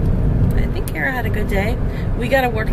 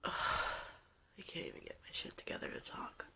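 hushed, shaky and upset; barely holding it together; after crying; 5 dB quieter than usual. Real, not acted. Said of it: "I'm pretty upset with myself. It's pretty raw right now".

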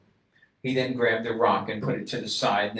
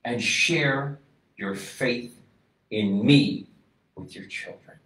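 much louder, higher, slow proclamation; God shouting; 6 semitones higher, 13 dB louder, slower than usual. Acted. God shouting from heaven to his people, booming then hushed. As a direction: thunder it from heaven, then fall away. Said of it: "Adonai is shouting from heaven".

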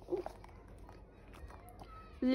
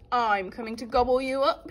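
shouted; 4 dB louder than usual. Acted. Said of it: "shouted the troll".

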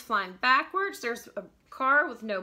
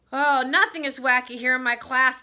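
loud, high order to leave; storybook teacher shouting; 4 semitones higher, 8 dB louder than usual. A narrator's reading. Teacher throwing pupil out of class, shouting. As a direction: shout them out of the room. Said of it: "She's shouting at him".

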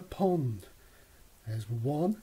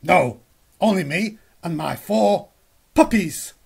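lightly voiced dog; 2 semitones higher, 9 dB louder than usual. The dog answers Goz.

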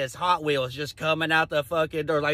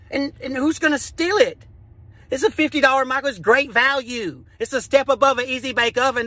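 high, incredulous protest; incredulous retort; 7 semitones higher than usual. Retold or imitated. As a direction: argue back in a high, disbelieving voice. Acted incredulous retort to the employee.

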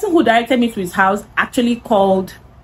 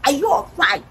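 retold screaming; 9 semitones higher, slower than usual. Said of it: "I was screaming on top of my voice".

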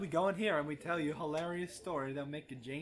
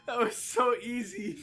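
excited; 10 semitones higher, 10 dB louder, slower than usual. Real, not acted. Triumphant after kill.

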